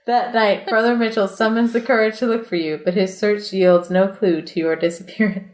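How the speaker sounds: steady read-aloud storyteller voice; reading the adventure book aloud to friends, measured narration; story narration. A narrator's reading. Reads gamebook narration aloud.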